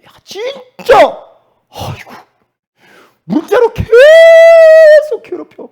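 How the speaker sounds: very high, loud, slow drawn-out yell; mock exasperated yell. Pastor imitating a harassed person, hammed-up exasperated yell. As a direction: wail it like someone harassed beyond bearing. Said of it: "힘들게 할 때 사람들이".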